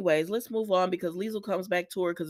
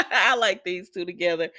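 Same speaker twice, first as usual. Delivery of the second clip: laughing. Real, not acted. Laughing over the two characters.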